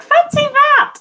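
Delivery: high, loud storyteller surprise; mock surprise. A narrator's reading. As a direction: exclaim it in wonder.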